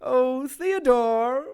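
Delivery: slow, silky sadistic suggestion; sweetly sadistic. Acted. Kay politely ordering Theodore to cut, slow sadistic purr.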